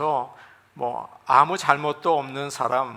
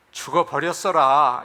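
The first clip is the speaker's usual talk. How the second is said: a light Jeolla dialect line; 4 dB louder than usual. Shown as a demonstration. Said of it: "전라도에서는".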